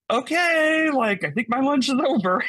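very high, loud "okay" breaking into laughter; high-pitched, laughing astonishment; amused disbelief. Retold or imitated. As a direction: retell a freaked-out reply through a laugh. Startled reply in retold exchange, laughing.

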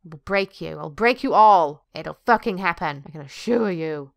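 low-pitched, hammed-up threat; mock menace. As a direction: play the villain, low and deliberate. Mock threats to captive agent.

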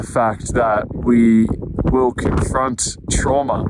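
talking through frozen lips; cold stiff lips. Real, not acted. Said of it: "it's hard to talk 'cause it's so cold".

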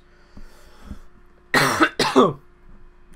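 loud rasping coughing fit; sudden violent coughing; choking cough fit. Real, not acted. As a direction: choke hard on air. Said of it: "Oh god, I'm talking too much".

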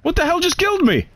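high, disbelieving cry; can't believe he died; baffled outrage. Real, not acted. Killed unexpectedly, high outburst.

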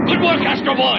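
high-pitched congratulation; delighted praise. Acted. Leader praising hero after fight.

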